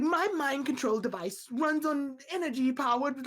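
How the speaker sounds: mock intellectual villain; sophisticated villain voice. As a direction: play a smug genius cartoon villain. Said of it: "they always give him that high, sophisticated".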